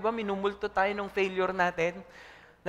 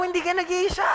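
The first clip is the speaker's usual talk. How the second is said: louder, higher; 9 semitones higher, 4 dB louder than usual. Shown as a demonstration. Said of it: "Sabi sa katabi mo".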